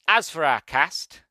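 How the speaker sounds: slow, high movie trailer announcer; movie guy voice. Shown as a demonstration. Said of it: "I thought I did pretty well there".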